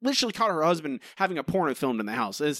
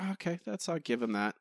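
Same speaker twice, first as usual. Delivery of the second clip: softer, lower grudging "okay"; mild grudging approval; 4 semitones lower, 8 dB quieter than usual. Retold or imitated. Cohost imitating his own grudging approval of the joke, quiet. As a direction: concede it quietly.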